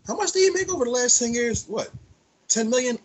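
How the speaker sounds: mock fed voice. Friends joking about the feds, imitating an investigator sneeringly. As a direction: play the nosy investigator counting his cash. Mocking the feds tallying earnings.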